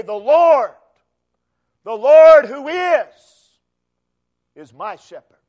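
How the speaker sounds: loud, high, slow proclamation; lifted voice. Shown as a demonstration. Preacher calling every child of God to proclaim it loudly. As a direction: lift your voice and proclaim it. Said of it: "lift up their voice with David and say".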